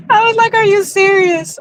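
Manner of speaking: laughing. Real, not acted. Retelling her reaction to him, laughing hard. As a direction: squeeze the words out between laughs.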